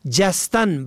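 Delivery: جستن with an "a" first vowel, "jastan"; fatha on first letter. Shown as a demonstration. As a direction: say جستن as JAS-tan. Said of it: "به فتح اول".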